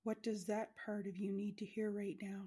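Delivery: gentle unvoiced whisper. Whispered meditation question.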